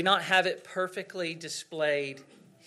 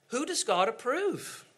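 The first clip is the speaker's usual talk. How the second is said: repeated higher question; 5 semitones higher than usual. Shown as a demonstration.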